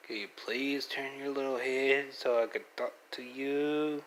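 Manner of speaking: put-on coaxing baby talk; baby talk to pet. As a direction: sweetly coax the pet to look.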